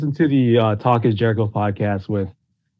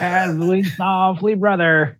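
Hulk Hogan promo; 6 semitones higher, much slower than usual. Retold or imitated.

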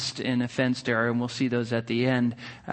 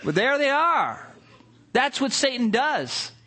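preaching. Acted. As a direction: press the lesson home to the congregation. Turns story into sermon point.

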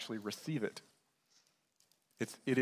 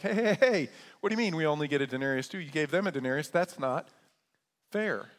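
indignant grumbling worker; 3 semitones higher, 3 dB louder than usual. Acted. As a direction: complain like a worker who feels cheated.

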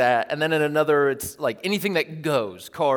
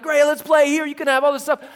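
imitating son; 8 semitones higher, 3 dB louder than usual. Son voiced, generous offer.

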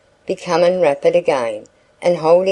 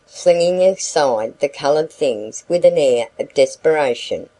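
ordinary delivery

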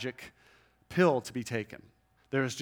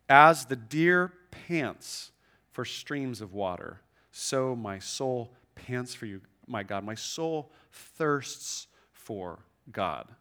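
slow scripture reading; slower than usual. Acted. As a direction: let each line of the psalm linger. Reading psalm verse slowly.

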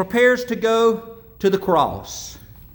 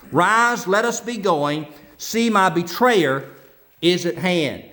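scripture reading. Acted. Pastor reading Matthew to the congregation, measured and solemn. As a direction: read the passage with reverence. Preacher reads Gospel passage aloud.

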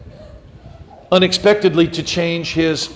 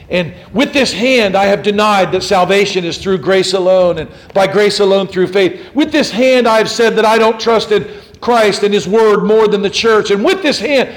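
louder, rising preacher's cry; impassioned confession; 3 semitones higher, 5 dB louder than usual. Retold or imitated. Cranmer confesses to the crowd before burning, fervent.

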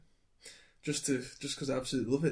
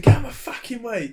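higher, louder Cockney gangster quote; 9 semitones higher, 10 dB louder than usual. Retold or imitated. Retelling a film gangster to friends, loud Cockney. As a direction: spit it out like a London geezer. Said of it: "he says it all in Cockney rhyming slang".

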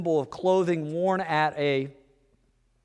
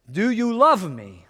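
pleading spouse; 6 semitones higher, 7 dB louder than usual. Retold or imitated.

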